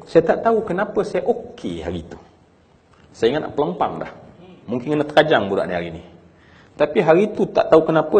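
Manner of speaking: loud, high, pressed retelling of the father's words. Retold or imitated. Preacher voicing a grieving father's memory, loud and high. Father recounting his calm response.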